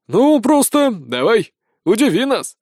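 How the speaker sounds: slow, drawn-out skeptical dare. A narrator's reading. Soldier dares the recruit with open skepticism. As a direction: dare him, doubting. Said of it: "с нескрываемым скептицизмом".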